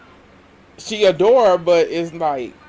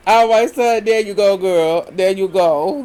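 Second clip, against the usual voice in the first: excited cheering; 2 semitones higher, 5 dB louder than usual. Real, not acted. Cheering the fight on.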